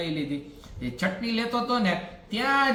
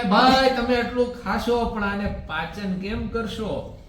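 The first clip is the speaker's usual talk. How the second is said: mock call; 3 semitones higher, slower than usual. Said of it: "બૂમ પાડી છાશે".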